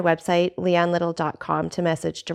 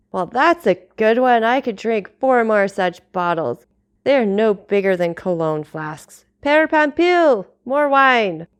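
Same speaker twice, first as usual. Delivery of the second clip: put-on drunken bluster; 4 dB louder than usual. Drunk man calls for wine.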